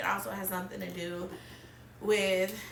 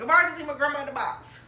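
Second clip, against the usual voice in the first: tearful retelling; 6 semitones higher, 6 dB louder, faster than usual. Retold or imitated. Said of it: "I was like".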